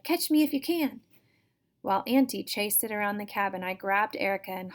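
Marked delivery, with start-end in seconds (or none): 0.0-1.0 higher, louder impish taunt; teasing creature. Acted. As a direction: tease her like a mischievous wind-up doll. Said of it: "it cried".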